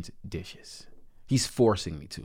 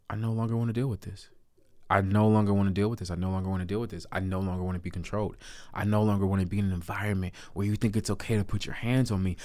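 softer, fast repeated declaration; quiet resolve; 6 dB quieter, faster than usual. Retold or imitated. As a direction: murmur it like a vow to yourself. Resolute mantra to self.

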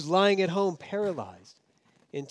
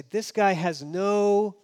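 devout Jew scorning; 3 semitones higher, 5 dB louder than usual. Retold or imitated. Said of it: "So a devout Jew of the day would say".

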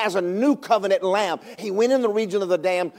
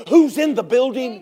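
loud ringing preacher question; shouted question; 4 semitones higher, 4 dB louder than usual. Acted. Preacher asking congregation, shouted question. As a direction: call it out to the room.

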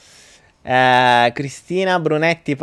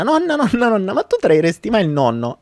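put-on child calling; 7 semitones higher than usual. Pierino calls grandmother.

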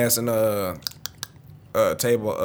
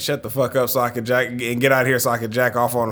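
shouting. Retold or imitated. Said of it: "I was like".

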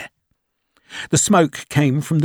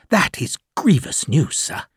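put-on anxious young lieutenant; 4 semitones higher than usual. Lieutenant reacting to bad news.

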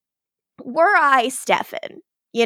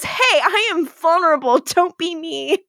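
higher, playful protest of a friend; mock laughing protest; 5 semitones higher than usual. Caroline laughs off Stefan's blunt verdict, mock laughing protest. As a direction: imitate a friend objecting through amusement. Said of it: "she laughs and she goes".

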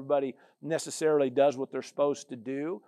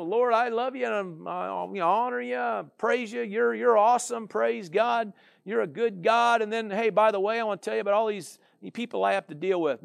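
higher, hammed-up gushing turning to complaint; mock whiny prayer; 4 semitones higher than usual. Believer praying to the Lord about difficult people, mock whine. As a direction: gush praise then whine about people. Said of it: "You're sitting here, you know, whining".

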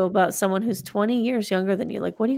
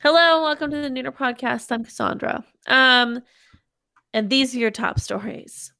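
mock announcer; 3 semitones higher than usual. Mock restart as podcast news host.

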